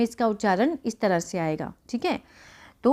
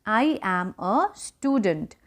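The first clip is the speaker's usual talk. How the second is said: slow, softer second read of I am a student; quiet, slow repetition; slow softer repeat; much slower than usual. Shown as a demonstration. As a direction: repeat gently for the class. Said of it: "मैं एक विद्यार्थी हूँ".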